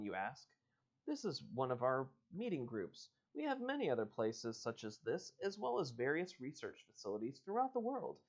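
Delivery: reading the book's dialogue aloud; story reading. Acted. Host reading a choose-your-own-adventure to listeners, storyteller voice. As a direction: read it like an adventure book. Reads the man's explanation.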